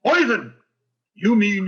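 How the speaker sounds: loud, indignant exclamation; outraged outburst. Acted. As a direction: spit it out in shock. Conklin outraged at the regift.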